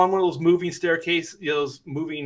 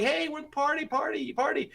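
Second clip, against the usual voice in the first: mock party cheer; 11 semitones higher, 6 dB quieter than usual. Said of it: "And we're like".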